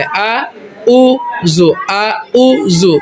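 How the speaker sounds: "আউযু" split into two plain vowels, no ayn; wrong double hamza. Retold or imitated. Teacher showing the sinful mistake, "আউযু" with hamza twice. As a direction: break "আউযু" into "আ", "উ", "যু" without throat sound. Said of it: "এমনি করে বললে গুনাহ হবে".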